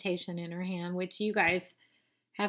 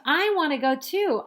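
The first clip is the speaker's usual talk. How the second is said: higher and louder, a whiny demand; little sister's scream; 7 semitones higher, 7 dB louder than usual. Acted. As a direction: shout it like a cross toddler. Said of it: "Santa screams".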